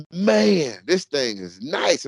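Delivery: mock amazement; impressed dad. Dad acting surprised at clean room, high then slow. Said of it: "I go".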